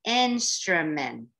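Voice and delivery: 'Instrument' drawn out slowly; stretched out. Shown as a demonstration. Teacher stretching the word out for readers, slow and drawn out. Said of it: "Let's stretch it out".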